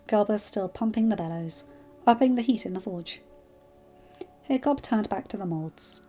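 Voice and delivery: measured audiobook-style narration; story narration. A narrator's reading. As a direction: read the tale aloud evenly. Narrates the fan fiction.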